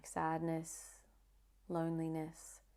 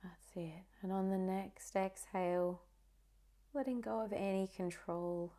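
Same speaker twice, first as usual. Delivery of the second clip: guided meditation. Acted. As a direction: ease the listener into calm, one phrase at a time.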